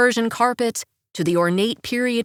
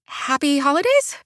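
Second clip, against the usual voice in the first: faltering; 6 semitones higher than usual. A narrator's reading. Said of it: "I suggest in a faltering voice".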